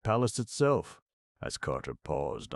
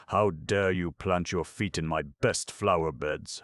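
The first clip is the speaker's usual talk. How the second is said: howling; 3 semitones higher, 3 dB louder than usual. Acted. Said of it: "howled Irashi".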